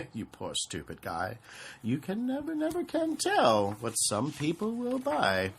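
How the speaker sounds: mocking. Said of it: "I laughed at the Lorax".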